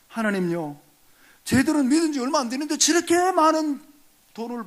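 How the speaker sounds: complaining believer. Retold or imitated. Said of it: "아마 이런 말 했을 것 같아요".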